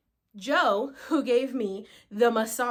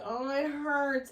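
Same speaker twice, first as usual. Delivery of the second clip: pained moan; 3 semitones higher, 4 dB quieter, slower than usual. Retold or imitated. Re-enacting pain while lying down.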